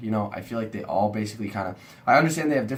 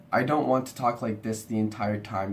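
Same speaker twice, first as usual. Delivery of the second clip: mildly monotone demo; even, unvaried delivery; boring monotone. Shown as a demonstration. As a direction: hold one tone, a bit dull. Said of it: "That would be very boring".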